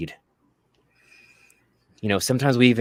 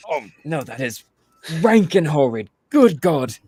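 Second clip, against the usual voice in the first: guard disgusted; 6 semitones higher than usual. Acted. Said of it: "takes a whiff in".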